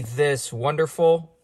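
slow, mock-admiring sarcasm; sarcastic. Real, not acted. Vlogger showing viewers the dreaded warning light, sarcastic. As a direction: drag it out with dry sarcasm. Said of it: "I'm being sarcastic".

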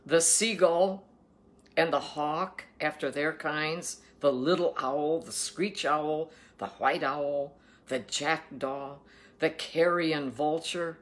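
slow, emphatic Bible reading; scripture reading. Acted. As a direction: proclaim the food laws, weighting each word. Reads scripture aloud.

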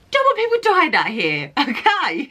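high giggly voice, laughing through the words; giggling aside to viewers; laughing at herself. Real, not acted. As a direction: joke about the slip while cracking up. Laughing at her own slip.

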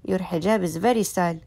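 high-pitched adoring fuss; gushing admiration. Acted. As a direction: gush over a cute pet. Gushing over a cat's look.

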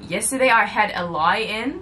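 playful imitation of an Australian accent, on the edge of laughing. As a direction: say it in a mock Australian accent, amused. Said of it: "She said an Australian accent".

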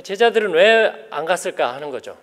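ordinary delivery

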